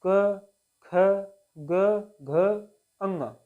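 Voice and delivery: क, ख, ग, घ sounded singly from the throat, pauses between; throat consonant demonstration. Shown as a demonstration. Teacher showing learners which sounds come from the throat, demonstrative articulation. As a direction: recite each velar letter separately, as a teacher would. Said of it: "अपने कंठ से हम बोलते हैं".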